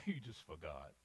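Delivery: giving them a way out; mock diplomacy. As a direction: lightly imitate a diplomatic king making excuses. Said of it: "He starts with diplomacy".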